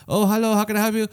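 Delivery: high, chirpy greeter voice; drive-thru lady. Retold or imitated. Lady on the drive-thru speaker greeting a customer, perky. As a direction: pitch it up like an order-taker. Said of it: "like, a lady being like".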